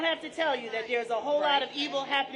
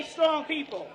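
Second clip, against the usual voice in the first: shouted response to the crowd; call-and-response shout; 2 semitones higher, slower than usual. Real, not acted. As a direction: shout it so they echo it.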